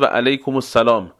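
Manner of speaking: pronunciation demo; Iraqi Arabic reply. Shown as a demonstration. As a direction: model the reply و علیکم السلام for students.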